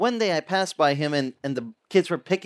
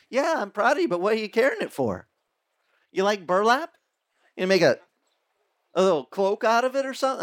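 lightly teasing God; 5 semitones higher than usual. Pretend.

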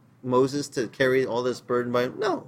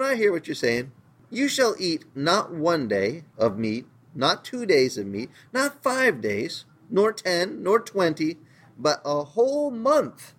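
God rising high and slowing on each step, not five days, nor ten, nor twenty; God's stern reply; 3 semitones higher than usual. Acted. Preacher voices God's answer.

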